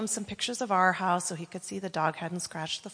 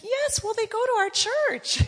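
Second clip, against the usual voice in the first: much higher, laughing through the words; amused; 6 dB louder than usual. Retold or imitated. Pastor revealing the friend attends his church, amused. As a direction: deliver the punchline with a giggle. Pastor confirms the small-world link.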